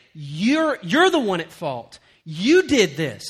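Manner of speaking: loud, deliberate mock blame; acted-out accusing complaint; retold accusation. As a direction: pin the blame on him, firmly. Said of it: "they started directing it at Moses".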